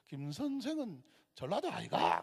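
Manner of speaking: lilting Gyeongsang dialect question, pitch swinging up and down; Gyeongsang accent. Retold or imitated. Gyeongsang teacher asks a colleague where he's from, Gyeongsang accent. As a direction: imitate a Gyeongsang man's sing-song question. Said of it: "경상도 분이에요".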